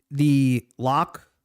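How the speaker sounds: talking through the hiccups; a hiccup catches the words. Real, not acted. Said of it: "Got the hiccups".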